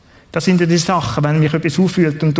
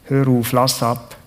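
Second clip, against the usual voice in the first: slow invitation; 3 semitones lower than usual. Acted. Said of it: "er lädt ein und sagt".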